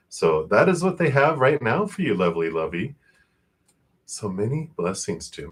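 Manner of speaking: breathless from talking fast; out of breath. Real, not acted. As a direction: catch your breath while speaking. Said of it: "I'm out of breath".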